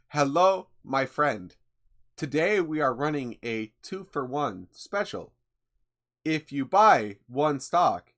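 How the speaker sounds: lightly robotic scam-bot sales voice, slowed on the offer; a mild hint of a robot salesman pitching stocks; robot impression. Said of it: "let's see how good my robot impression got".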